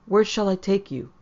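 rising voice. A narrator's reading. Woman pressing the silent pair, voice rising. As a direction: push the voice up further. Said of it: "her voice rising".

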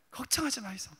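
cocky fishermen reassuring in Gyeongsang dialect. Acted. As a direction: play the confident disciple with a Busan lilt. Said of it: "경상도 사투리로".

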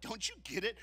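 ordinary delivery

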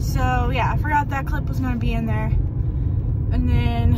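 slightly winded talking; short of breath while talking. Real, not acted. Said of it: "sorry, I'm out of breath".

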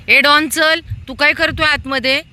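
high-pitched chiding call. Real, not acted. Feeder telling Don to come out quickly, calling out. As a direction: summon a dog that is dawdling inside.

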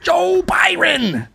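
high, slow hammy MC call; announcer voice. Retold or imitated. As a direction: introduce him like a ring announcer. Mimics MC announcing.

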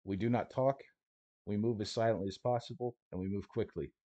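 a hint of a no-nonsense smuggler laying down rules; lightly voiced stalker guide, matter-of-fact; gruff guide Coyote. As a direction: tough guide briefing his clients, half-acted. GM plays Coyote briefing group.

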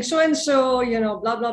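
mock Chinese accent on the phone. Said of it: "in this Chinese accent".

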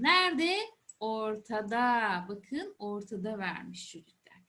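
put-on patient teacher voice for kids; explaining to a child. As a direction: talk it through gently for children. Teacher talking to young children.

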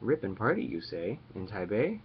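rippin' party rising like a doubtful question; quizzical echo. Retold or imitated. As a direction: repeat "Rippin' party" back with a questioning lift on "party". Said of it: "And I'm like".

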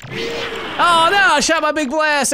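a touch of character panic; lightly voiced game character. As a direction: cry it out as the big-headed man. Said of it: "He's just like".

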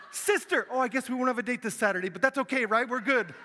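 playful high chatter. Retold or imitated. Joking to a sister mid-flight.

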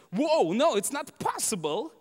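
mock a stunned onlooker refusing to believe it; acted shock, easing after the outburst; astonished disbelief. Acting people's disbelief at an apparition.

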